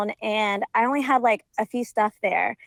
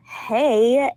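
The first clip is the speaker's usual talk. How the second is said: drawn-out hey, fuller than the curt one; tentative greeting; 3 dB louder than usual. Retold or imitated. Caller greeting the ex who ghosted her, drawn-out and tentative. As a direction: reenact a hopeful, lengthened greeting. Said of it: "And I was like".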